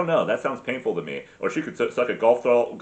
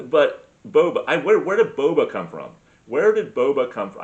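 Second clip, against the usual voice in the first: exasperated outburst; 3 semitones higher, 6 dB louder than usual. Real, not acted. Ranting to listeners about boba tea, loud and exasperated. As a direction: demand to know where boba came from.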